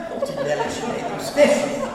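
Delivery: high-pitched cheeky music-hall aside; comic song aside. Retold or imitated. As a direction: jump up high for a naughty patter aside. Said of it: "snatches of his own songs".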